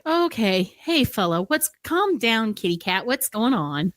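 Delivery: placating guard. Acted. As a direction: talk down a riled-up captive. Guard character calming a shouting captive.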